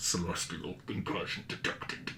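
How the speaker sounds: breathy, hushed guttural voice crackling like static. Narrating a voice the swimmers hear in Precursor, guttural static voice. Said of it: "guttural static voice in Precursor say".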